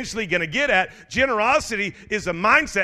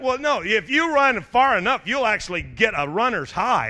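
higher, louder, pushing the runner's high; eager runners; 4 semitones higher, 5 dB louder than usual. Retold or imitated. Runners urging the pastor on, louder and eager. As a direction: sell him on running far enough.

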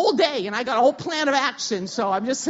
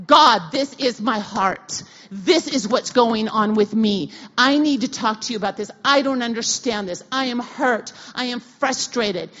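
raw prayer; 7 dB louder than usual. Retold or imitated. Her raw prayer to God.

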